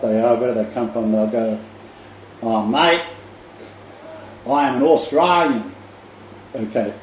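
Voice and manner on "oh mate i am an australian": put-on outback Australian accent. Showing how outback locals answer, broad Australian accent. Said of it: "outback Australian accent".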